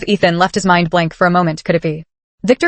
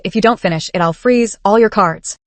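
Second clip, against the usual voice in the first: ghostly threat. Acted. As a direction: let each word hang like a ghost. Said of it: "Victor S ghostly voice came from behind".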